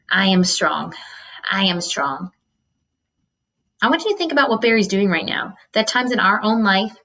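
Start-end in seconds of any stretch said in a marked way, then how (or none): 0.1-2.3 quiet self-affirmation. Acted. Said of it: "It was his own voice".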